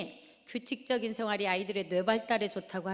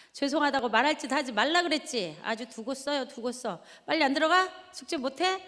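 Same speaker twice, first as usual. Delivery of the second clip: yelling mother; 3 semitones higher than usual. Retold or imitated. Mother yelling kids into their rooms, building to a shout. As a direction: yell them back to homework. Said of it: "그리고 아이한테 소리를 지르죠".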